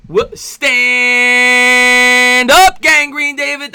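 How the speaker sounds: high, loud hype call; booming welcome for a viewer; loud shout-out. Real, not acted. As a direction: shout him up to his feet. Hypes a chat viewer's arrival.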